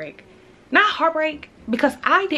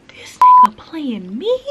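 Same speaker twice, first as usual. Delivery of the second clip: slow, breathy whispered disbelief; hushed, stunned aside to yourself; incredulous whisper; 7 semitones higher, 11 dB louder, much slower than usual. Retold or imitated. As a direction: whisper it like you can't believe it. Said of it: "And I'm sitting like".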